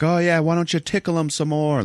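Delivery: high sneering sarcasm; retold scornful jab; mock sarcastic. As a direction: taunt it with a bitter edge. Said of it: "the driver's just like".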